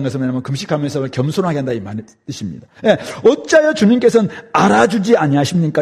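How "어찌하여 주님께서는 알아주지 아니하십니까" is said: mildly protesting, imitated plea; protesting prayer. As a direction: put a light complaint into the prayer. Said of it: "이렇게 기도하면서 하나님께 항변하는 것입니다". (가볍게 항변하는 기도 흉내)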